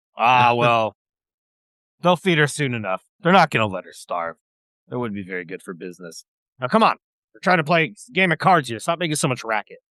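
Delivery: rude, dismissive, brushing-off lizard creature voice. Voicing a lizard folk playing cards, brushing off a request: lizard folk card player voice. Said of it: "He's gonna say".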